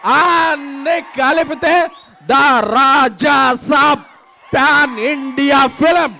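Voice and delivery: crowd-pumping stage hype; excited. Real, not acted. Hyping film on stage.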